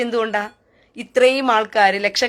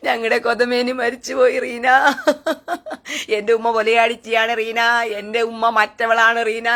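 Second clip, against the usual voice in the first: half-hearted mock whine to Reena; a hint of a crybaby pleading; mock wailing complaint. Mocking commenters wailing to Reena, mildly whiny. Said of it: "എന്നോടാ പിന്നെ മൊത്ത കരച്ചിലും തീർക്കുന്നത്".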